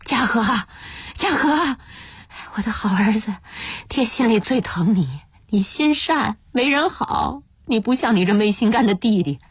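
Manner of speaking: strained, coaxing plea rising to a wail; desperate begging. Acted. Father begging his eldest son to release him, desperate. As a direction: implore him tearfully, pitch climbing at the end. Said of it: "只好再去求大儿子".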